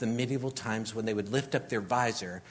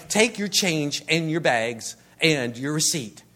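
bossy checkout voice; 3 semitones higher, 6 dB louder than usual. Retold or imitated. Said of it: "And then she goes".

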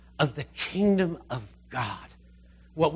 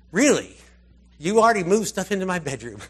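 mock outrage at his cleared room; incredulous Lazarus; 3 semitones higher, 6 dB louder than usual. Lazarus back from the grave, indignant at Martha.

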